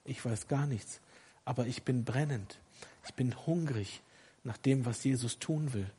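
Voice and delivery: soft, subdued admission; quietly confessing to the congregation; humbled confession. Real, not acted. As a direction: drop the voice and admit it quietly.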